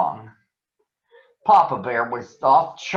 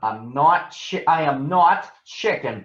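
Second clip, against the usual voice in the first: protesting; 3 semitones higher than usual. Acted. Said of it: "protested Brother".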